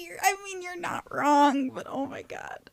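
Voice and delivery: high, weak words through real laughter; laughing helplessly. Real, not acted. Conceding the garlic true love joke, laughing helplessly. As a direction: squeeze the words out while cracking up.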